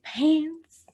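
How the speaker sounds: breathy playful whisper; whispered echo. Acted. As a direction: whisper it like a secret.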